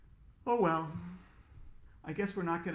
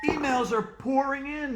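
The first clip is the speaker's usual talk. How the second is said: high, loud frantic call; panicked shout; 10 semitones higher, 7 dB louder than usual. Acted. Teacher at the computer, high frantic shout. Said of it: "shouted Mister Cooper".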